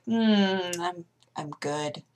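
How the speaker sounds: breathy worn-out whisper; exhausted whisper. Retold or imitated. Answering Aaron after arm workout, exhausted whisper. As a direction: whisper it, totally spent. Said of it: "I was like".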